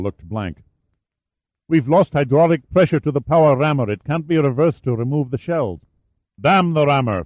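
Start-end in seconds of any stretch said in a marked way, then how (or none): 1.7-5.8 urgent report. Acted. Urgent report during attack. 6.4-7.2 snorting, raised and sharp; angry snort. Acted. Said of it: "Fawkes snorted".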